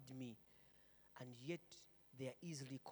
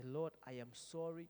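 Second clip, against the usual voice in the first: prayer; 4 semitones higher, 4 dB louder than usual. Shown as a demonstration. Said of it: "Just say".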